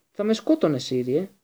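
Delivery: high, loud whine falling away; plaintive, pleading coward; whimpering. A narrator's reading. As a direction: whine it in self-defence. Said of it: "κλαψούρισε ο Πέντιγκρου".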